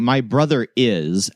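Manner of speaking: "brother" leaned on with a rise; stress on brother. Shown as a demonstration. Teacher showing students where the stress falls on "brother". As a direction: push the word "brother" as the emphasis. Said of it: "When you're emphasizing".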